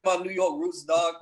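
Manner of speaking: badly faked New York accent; terrible New York accent. Showing friends his New York roots, terrible New York accent. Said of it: "That's a terrible New York accent".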